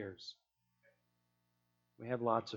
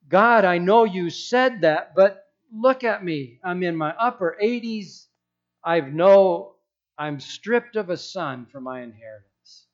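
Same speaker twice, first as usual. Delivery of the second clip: complaining Abram; 3 semitones higher, 5 dB louder than usual. Acted. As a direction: protest to God, arms out. Abram complaining loudly to God.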